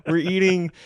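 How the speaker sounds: words breaking into laughter; laughing. Real, not acted. Laughing at eating goat.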